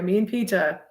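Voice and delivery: put-on lightly done British accent on "me and Peter". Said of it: "here's the Sirius Black voice".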